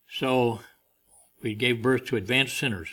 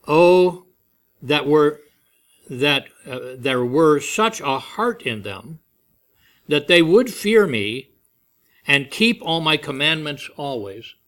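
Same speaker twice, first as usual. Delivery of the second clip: a breathed-in "Oh", louder, then slow yearning; longing sigh; 4 dB louder, slower than usual. Retold or imitated. God wishing his people would obey, a yearning sigh. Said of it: "seems to take a breath and said".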